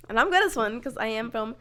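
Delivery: Southern accent. Shown as a demonstration. Showing off a Southern accent to a friend, drawling. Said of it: "this one's gonna be Southern".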